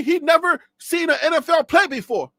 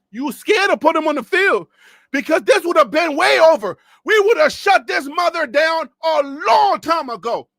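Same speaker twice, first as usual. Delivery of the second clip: shouting; 4 semitones higher, 5 dB louder than usual. Real, not acted. Loud challenge.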